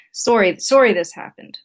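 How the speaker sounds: perfunctory, uncommitted sorry; flat apology. Retold or imitated. Husband apologizing to wife about the booking mistake, flat. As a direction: apologize flatly, without real commitment. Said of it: "but just sort of flat".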